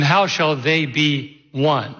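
"How shall they be one?" slow, measured emphasis; deliberate, one word set apart; shifting emphasis demo. Shown as a demonstration. Pastor finishing the emphasis demo, measured.

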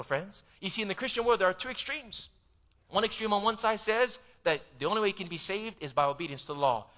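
ordinary delivery

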